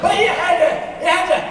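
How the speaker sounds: put-on a grouchy old man shouting at a little girl; grumpy old man voice. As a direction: bark like a crotchety old man with a cane. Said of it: "I started talking like this".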